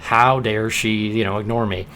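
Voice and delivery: indignant. Shown as a demonstration. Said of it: "the last line was more like".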